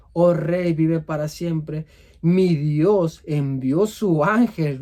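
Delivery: shouting to the king. Acted. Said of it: "habla y le grita al rey".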